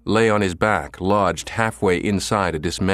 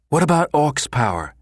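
demanding; 8 semitones higher than usual. A narrator's reading. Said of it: "Midge demanded".

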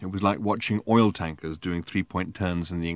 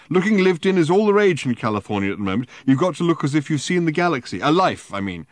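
put-on high, loud drunken rant; drunken protest; 8 semitones higher, 7 dB louder than usual. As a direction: insist loudly, tipsy. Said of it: "he protested".

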